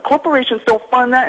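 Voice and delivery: scoffing woman imitated high; mocking her reply. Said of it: "She was like".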